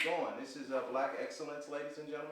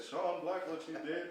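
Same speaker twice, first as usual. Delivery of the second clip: big, higher wrestling announcer voice; wrestling promo voice; 5 semitones higher than usual. Shown as a demonstration. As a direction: hype it up like a ring promo. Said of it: "I'm doing my wrestling voice".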